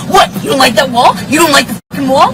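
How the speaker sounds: fast, loud, taunting rising questions; sarcastic mock quote. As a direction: mimic the partner's taunting. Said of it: "and going".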